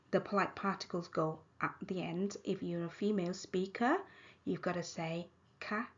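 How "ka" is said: KA on a high tone, not falling. Shown as a demonstration. Teacher reminding female speakers, high tone. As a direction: keep KA up. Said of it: "high tone".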